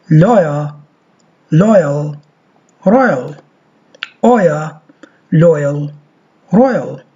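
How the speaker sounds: loyal as lojal, royal as rojal; model word drill. Shown as a demonstration. Teacher drills the oya diphthong.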